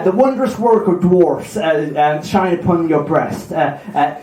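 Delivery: Cornish sea-dog, amused; Cornish pirate accent. Acted. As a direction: lapse into comic Cornish. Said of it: "it sounds very Cornish now".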